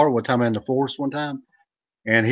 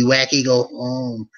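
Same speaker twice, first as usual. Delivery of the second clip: slow character voice; much slower than usual. Pretend.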